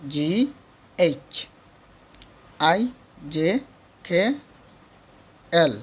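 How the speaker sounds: put-on letters chanted in the old classroom way, short vowels and rising list tune; habitual pronunciation. Shown as a demonstration. Teacher showing children the familiar wrong way, habitual Bengali-style letter names. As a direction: recite the alphabet the conventional Bengali schoolroom way. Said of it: "আমরা এতদিন যেভাবে শিখে আসছি".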